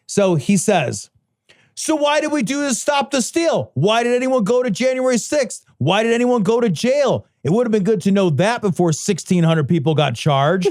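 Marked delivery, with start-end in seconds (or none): 1.7-10.7 mildly hammed-up indignant outburst; raised pitch, mock-outraged string of questions, settling by the end; Nick Fuentes. Podcaster reading out a duped follower's tirade, mock indignant. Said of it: "Nick Fuentes fucking flips the shit".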